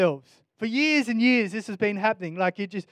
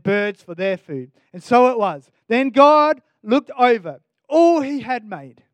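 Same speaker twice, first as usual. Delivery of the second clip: louder, measured Bible reading; scripture reading; 4 dB louder than usual. Acted. Preacher reading Genesis to congregation, solemn reading. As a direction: read the verses with weight.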